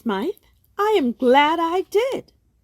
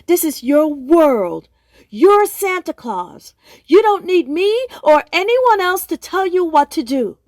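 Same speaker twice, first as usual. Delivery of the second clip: firm pep talk; 2 semitones higher, 4 dB louder than usual. Acted. Therapist firmly rallies Santa.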